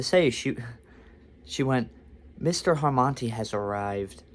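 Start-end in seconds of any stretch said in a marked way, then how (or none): 2.4-4.2 measured, formal mock announcement; understated butler-like introduction; announcing a VIP. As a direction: announce a famous guest in an even voice. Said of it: "like I'm some famous rich guy".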